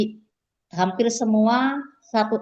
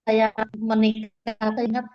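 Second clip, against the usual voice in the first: choppy connection. Real, not acted. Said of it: "suaranya putus-putus ya".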